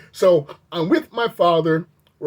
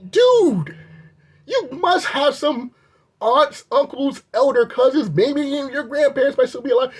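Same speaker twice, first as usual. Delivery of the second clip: outraged lecture; 5 semitones higher than usual. Real, not acted. Addressing the attendant in outrage.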